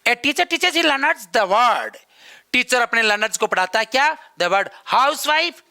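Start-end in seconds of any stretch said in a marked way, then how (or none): 0.1-1.9 reads the sentence out word by word, very slowly; slow dictation. Shown as a demonstration. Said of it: "यहाँ पर एक ऐसा question". 4.4-5.6 "housewife" drawn out very slowly, rising at the end; slow dictation. Shown as a demonstration. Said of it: "यहाँ पर एक ऐसा question".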